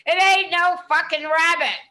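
high, loud outraged shout; character yelling that it's no rabbit; indignant yell. Retold or imitated. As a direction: bark it back at the cops, offended. Character snaps back at cops.

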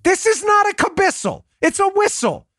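high-pitched, exasperated correction; mock insistence. Host argues over the whistle's name, mock insistent. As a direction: argue back as if losing patience. Acted quarrel over the word.

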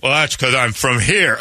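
high folksy Southern voice; sweet-talking Southern lawman; drawling Southern sheriff. Acted. Voicing Arpaio.

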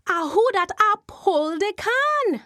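Jumbie voice again. Acted. Jumbie spirit calling to the wife a second time. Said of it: "Missus Lanneman turned around".

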